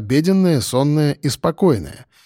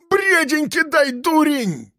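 high frantic yell, a bit slow; 13 semitones higher, slower than usual. Acted. Piston yells at his friend to hand over the net, frantic high yell. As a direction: bellow for the net in a panic. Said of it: "вопит Пистон".

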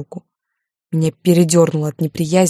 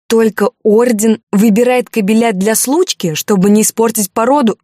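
raised, louder indignant question; bitter outrage; 5 semitones higher, 5 dB louder than usual. Acted. Heroine confronting Alexander, raised indignant voice. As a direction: fling the accusation at him.

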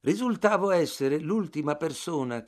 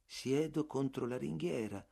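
calmo e piano, più sommesso; 7 dB quieter than usual. Acted. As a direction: rispondi tranquillo, senza scomporti. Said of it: "rispose calmo". (Bartleby risponde calmo e sommesso)

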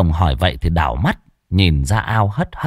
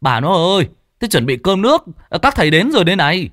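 higher, raised call into the house, fast at the end; calling out to wife; 9 semitones higher, faster than usual. Acted. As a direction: shout for the wife to cook. Gọi vợ chuẩn bị cơm. (gọi vợ to, gấp gáp)

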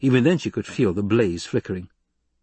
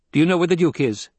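higher, pressing question; demanding; 7 semitones higher, 4 dB louder, faster than usual. A narrator's reading. Lady questioning the guard, demanding. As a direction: demand an answer from a subordinate. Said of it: "she demanded".

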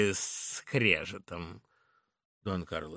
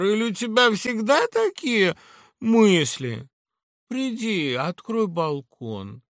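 high, louder carefree woman; Laura, dismissive; 11 semitones higher, 8 dB louder than usual. Acted. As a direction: brush off gloomy talk. Laura dismisses old age.

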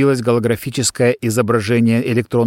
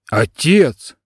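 anguished cry of father; desperate call; 2 semitones higher than usual. Acted. Son calls his dead father, anguished cry. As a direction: call out to him, frightened.

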